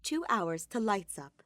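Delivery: slow, weighty time marker; slow dramatic scene heading. A narrator's reading. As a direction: announce it slowly like a title. Scene break announcement.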